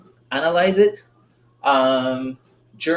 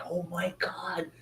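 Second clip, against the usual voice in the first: awed hush; 3 semitones higher, 12 dB quieter, slower than usual. Retold or imitated. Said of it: "I was like".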